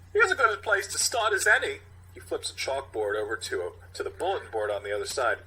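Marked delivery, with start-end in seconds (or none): 0.1-1.8 Walken impression. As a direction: drag each word out like Walken. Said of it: "Captain Ronnie".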